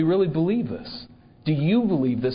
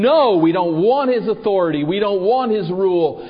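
louder, higher, emphatic protest; defiant refusal; 4 semitones higher, 5 dB louder than usual. Acted. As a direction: throw it back as a raised-voice rejection. Voices rebels rejecting God's king.

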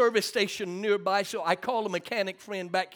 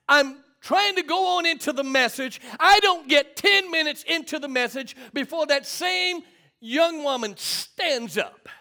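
raised, forceful preacher's voice; emphatic preaching; 6 semitones higher, 4 dB louder than usual. Real, not acted. Preacher to church folks about troubles, emphatic preaching.

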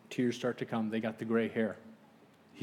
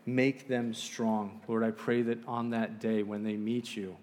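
earnest, measured public prayer; closing prayer; 3 dB quieter than usual. Real, not acted. Preacher praying for the church, earnest measured prayer. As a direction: address God sincerely, settling softer toward the amen.

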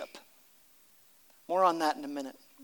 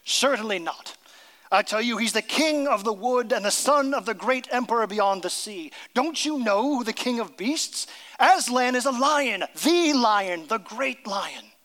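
stern Mister Beaver; 4 semitones higher than usual. Acted. Beaver telling the children of Aslan, stern and proud. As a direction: proclaim the great lion with awe. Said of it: "said Mister Beaver sternly".

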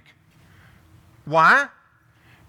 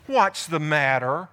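slow, coaxing wife; 4 semitones lower, slower than usual. Retold or imitated. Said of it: "Look at how she speaks to him".

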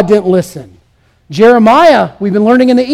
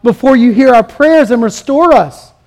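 lamenting plea. Acted. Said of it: "This is asking God".

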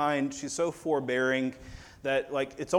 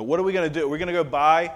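incredulous disciples; 3 semitones higher than usual. Retold or imitated.

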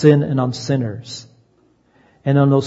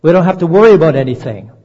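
mock complacent voice; 2 semitones higher, 4 dB louder than usual. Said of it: "We would say".

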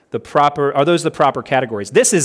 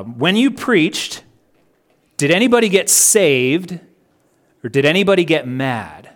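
put-on North Carolina accent. Preacher quoting someone's test of preaching, light North Carolina accent. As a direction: quote it with a touch of North Carolina hick weight. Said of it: "It was this North Carolina type accent".

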